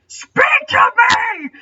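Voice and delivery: high, slow, full scream. A narrator's reading. Legolas screaming at his silent friend, desperate. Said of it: "Legolas screamed".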